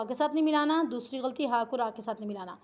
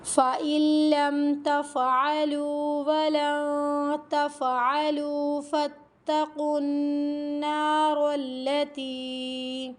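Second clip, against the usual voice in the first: slow melodic chanted recitation; Quran recitation; much slower than usual. Acted. Teacher reciting the verse to her students, melodic chant. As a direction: chant the verse in measured tajweed.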